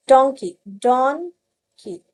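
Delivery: "डोंकी, डोंकी" stretched out slowly; slow repetition. Shown as a demonstration. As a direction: repeat "डोंकी" twice slowly. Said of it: "split करके सिखाइए". ("डोंकी" दो बार धीरे-धीरे)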